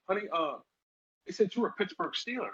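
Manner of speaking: a hint of a sweet old lady asking. Former player imitating the old lady at the store, high and sweet.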